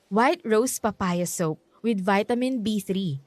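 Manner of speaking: bright, deliberate product pitch; ad read. Acted. Niece plugging her soap to uncle, ad-read style. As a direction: sell the soap clearly, slow and upbeat. Product plug inside the scene.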